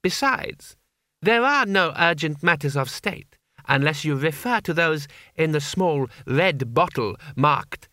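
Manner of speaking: lightly voiced young ruler; knowing boy Emperor. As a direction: reveal the trap with silky formality.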